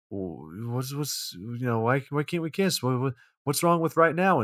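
mock a flustered, rebuffed suitor stumbling over words; retold hurt pleading. Retold rebuffed plea for a kiss.

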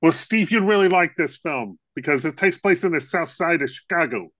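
put-on hint at a Chicago accent. Co-host to Steve about the film, in a light Chicago accent. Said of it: "I love your Chicago accent".

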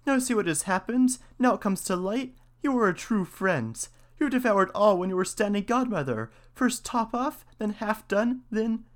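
high-pitched mouse accusation; accusing mouse. A narrator's reading. Mouse accuses cat of eating the fat, high-pitched. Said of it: "said the mouse".

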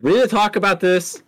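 a jokey fake-grave demand; mock serious. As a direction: play it like a staged confrontation. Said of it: "I'm just kidding".

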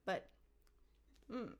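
lightly theatrical demand easing into doubt; mildly stagey creature backing down; Gollum, hesitating. Acted. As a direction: start insistent, then hesitate with long pauses. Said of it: "a theatrical voice".

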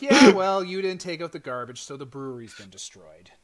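hammed-up passive-aggressive jab, falling away at the end. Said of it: "it's passive aggressive to the gills".

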